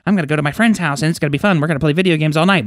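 rattled off fast in excitement; a rushing, giddy eight-year-old; can't wait, words tumbling out quickly; excited kid. Retold or imitated. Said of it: "'cause you're just excited".

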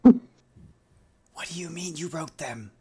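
put-on slow, puzzled child; a hint of a baffled kid; little girl voice. Little girl questioning the author, slowly.

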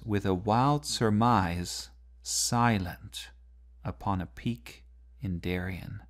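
surmise, silent, each pressed with a pause after; reading with dramatic stresses. Shown as a demonstration. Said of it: "these dramatic moments".

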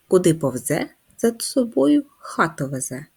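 a hint of a sing-song riddle, rising at the end; lightly voiced riddle reading for children; riddle recital. Shown as a demonstration.

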